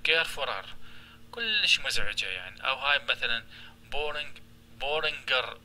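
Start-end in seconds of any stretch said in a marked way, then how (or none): 0.1-0.6 carefuler said as an awkward clumsy word; wrong-form demo. Shown as a demonstration. Teacher shows students the wrong comparative form. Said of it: "شوف ايش راح يصير". 3.9-5.6 boring then بورينجر dragged out slowly; wrong-form demo. Shown as a demonstration. Teacher shows the clumsy form to students, slowly. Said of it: "فد مزعجة الكلمة".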